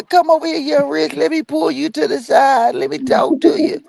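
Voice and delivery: high, syrupy church lady voice; fake-friendly high pitch; mock churchy sweet voice. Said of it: "Oh, yeah".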